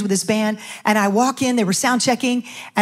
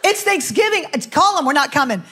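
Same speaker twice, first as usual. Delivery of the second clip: frustrated; 3 semitones higher than usual. Retold or imitated. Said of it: "I remember being so frustrated".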